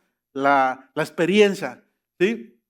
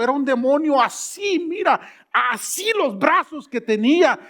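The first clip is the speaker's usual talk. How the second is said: higher, breathless excuse-making; excited disciples; 4 semitones higher than usual. Retold or imitated. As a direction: protest like a scared follower. Disciples excusing themselves to Jesus.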